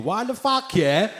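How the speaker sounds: lightly voiced indignant Sikh complainer; angry Sikh messager. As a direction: complain as an offended Sikh viewer. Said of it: "I got messages from Sikh people".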